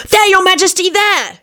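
high-pitched urgent cry; charlatan's shout. A narrator's reading. Charlatan pointing out the hidden witch, shouting high. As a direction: call out sharply to the king. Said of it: "he shouted".

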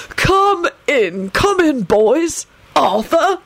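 high, genial welcome; cheery host's greeting; welcoming headmaster. A narrator's reading. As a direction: usher guests in with lifted pitch. Headmaster greets visitors as if social visit.

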